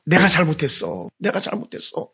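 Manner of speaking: a remorseful admission that fades to a whisper; repentant whisper. Retold or imitated. David confessing to God, dropping to a whisper. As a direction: confess it, then breathe it out.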